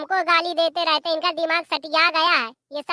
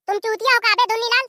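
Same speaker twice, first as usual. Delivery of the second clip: angry scolding; 5 semitones higher than usual. Acted. Host scolding the hungry relative about breakfast, angry. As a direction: snap back at the guest for begging food.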